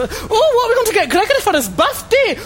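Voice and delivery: high, loud mock Scottish accent; exaggerated Scottish impression. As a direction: put on a hammed-up Scottish voice.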